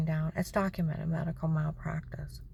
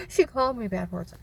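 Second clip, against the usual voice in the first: put-on whispered childish tattle; mock tattling whine; 3 semitones higher, 3 dB louder than usual. Mocking a woman tattling to the agent, whispered childish whine. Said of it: "crying to a federator".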